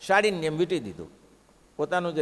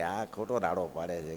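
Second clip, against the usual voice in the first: low mock aside; 10 semitones lower, 7 dB quieter than usual. Cloth voice mocks the fake cries.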